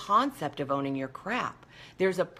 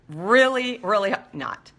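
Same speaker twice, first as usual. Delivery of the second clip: sarcastic; 5 dB louder than usual. Real, not acted. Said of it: "That's really helpful".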